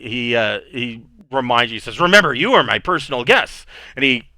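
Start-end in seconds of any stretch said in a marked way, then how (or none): 2.0-3.6 a lightly voiced tipsy lord inviting his guests; jovial drunk nobleman, a touch higher; drunk host. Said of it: "he's already drunk".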